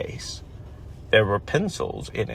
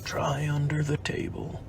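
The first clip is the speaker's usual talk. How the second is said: a stage whisper, a touch softer; loud whisper; 2 semitones higher, 5 dB quieter than usual. Acted. Eeyore's loud whisper to Christopher Robin. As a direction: hush it but let it carry. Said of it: "said in a loud whisper".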